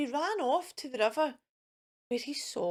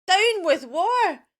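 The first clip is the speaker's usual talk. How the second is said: high, loud, slow hoot of a slogan; drawn-out rallying hoot; hooting call; 7 semitones higher, 8 dB louder, slower than usual. Acted. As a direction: hoot it out like a protest chant. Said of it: "and he hooted".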